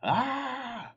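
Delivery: sudden high scream. Acted. Boy screaming as his father becomes a dragon, high loud shriek. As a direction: shriek in fright. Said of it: "screamed Radius".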